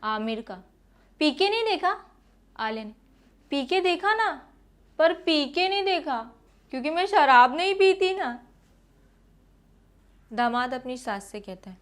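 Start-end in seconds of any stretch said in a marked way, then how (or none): 1.2-8.4 higher teasing exchange; raised-voice banter. Acted. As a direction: play it up, light and coy. Aamir and Alia dialogue.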